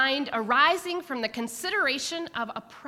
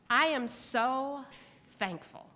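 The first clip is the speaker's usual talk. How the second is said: choked up. Real, not acted. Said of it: "haven't cried in church in a while".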